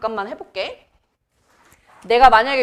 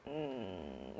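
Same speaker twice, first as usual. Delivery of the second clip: faint blank hmm of a student who forgot; blank hum; 14 semitones lower, 23 dB quieter, much slower than usual. Retold or imitated. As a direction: trail off into an empty hmm. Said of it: "이렇게 된다니까".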